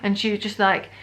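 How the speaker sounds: usual speaking voice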